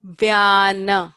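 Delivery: "Vyana" said clearly with a long a; careful Sanskrit "Vyana"; modeled pronunciation. Shown as a demonstration. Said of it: "Can everybody say that?".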